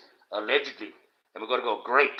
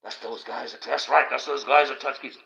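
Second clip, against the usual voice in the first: put-on gasping kids.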